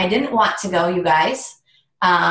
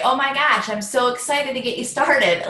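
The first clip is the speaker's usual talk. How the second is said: bubbly and a bit higher; upbeat welcome message read aloud; excited; 4 semitones higher than usual. Shown as a demonstration. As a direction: gush to the new recruit. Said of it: "I'm always excited".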